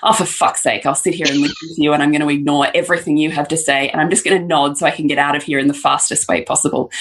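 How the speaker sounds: fast, eye-rolling mutter; fed up and rushing through it; exasperated. Retold or imitated. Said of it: "roll my eyes and go".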